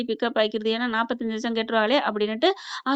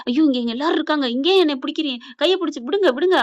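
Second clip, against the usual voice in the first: higher-pitched, acted-out fluster; flustered protest; 4 semitones higher, 4 dB louder than usual. Husband caught holding hands in hospital, mock flustered. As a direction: plead to be let go, half-panicked. Flustered man pleads to be released.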